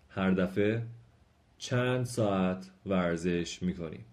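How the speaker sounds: slow, careful question reading for learners; slow Turkish model reading. Acted. Teacher reads Turkish questions slowly to students, careful and clear.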